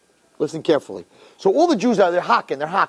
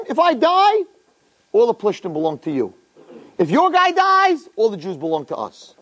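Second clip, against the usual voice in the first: challenging; 3 semitones higher than usual. Retold or imitated. Goliath proposing single combat to the Jews, challenging. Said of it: "So he was challenging".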